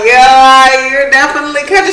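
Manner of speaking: high, loud, teasing delight; excited. Retold or imitated. Telling the girl she sounds country, excited and high. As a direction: squeal it out, amused. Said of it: "And then I was like".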